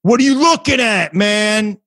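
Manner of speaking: mock a crazy guy picking a fight; confrontational stranger. Crazy guy accosting a walker from behind, confrontational. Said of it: "I hear this guy behind me".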